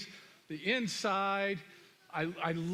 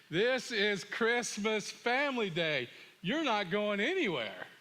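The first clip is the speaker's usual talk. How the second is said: retold firm refusal; 3 semitones higher than usual. Father stops son going snowboarding on family day, firm. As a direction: lay down the law, word by word.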